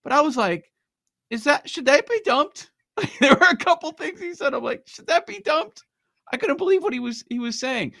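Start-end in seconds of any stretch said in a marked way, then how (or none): 1.3-2.7 higher-pitched retold disbelief; taken aback. Retelling own shocked reaction to broadcast. 4.9-5.8 much higher, incredulous retold question; taken aback. Repeats own shocked reaction.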